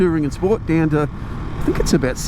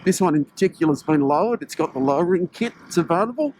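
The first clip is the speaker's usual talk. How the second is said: speaking through a face mask, muffled; muffled voice behind a cold-weather mask. Real, not acted. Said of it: "my apologies if I found a little bit muffled".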